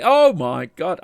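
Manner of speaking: imitated "well chuffed" exclamation; delighted recognition. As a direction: act out someone suddenly recognising old friends. Retelling streamer's delighted recognition.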